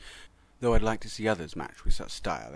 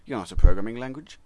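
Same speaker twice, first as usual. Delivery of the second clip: indignant surprise; 4 semitones higher, 7 dB louder than usual. A narrator's reading. C++ confronts XML.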